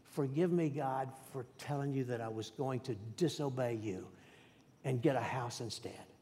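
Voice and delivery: a quiet plea for forgiveness; under my breath. Retold or imitated. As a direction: pray it softly, almost to yourself. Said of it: "under my breath".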